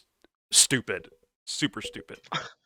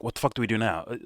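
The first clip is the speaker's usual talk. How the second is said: lightly voiced clueless filmmakers, a bit higher; half-hearted impression of lazy writers; mock filmmaker; 4 semitones higher than usual. Mocking lazy filmmakers brainstorming, a bit higher.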